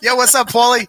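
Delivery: loud, high Philly-Italian "Yo, what's up, Paulie?"; Rocky Italian impression. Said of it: "Speaking of Italians".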